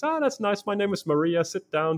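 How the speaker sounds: high-pitched retold welcome; lightly voiced hostess, starting high and easing down; mildly welcoming. Host welcoming the guest, retold.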